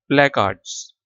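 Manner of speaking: "प्लेकार्ड्स" with the first vowel as in hat; open A, silent R. Shown as a demonstration. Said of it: "ये जिस तरह है की आवाज़ आती है ना".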